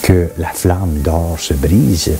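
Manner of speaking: measured recitation with pauses between phrases; solemn scripture reading. Acted. Reading Ecclesiastes aloud for listeners to reflect on, measured scripture reading. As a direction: read it as sacred verse, phrase by phrase.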